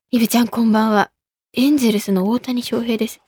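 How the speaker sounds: lightly voiced low, understated athlete; Ohtani. Host reading a ballplayer's message, lightly put-on low voice.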